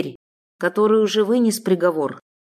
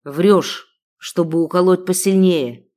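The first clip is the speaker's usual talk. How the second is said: angry accusation; 4 dB louder than usual. Acted. Sheikh keeps accusing.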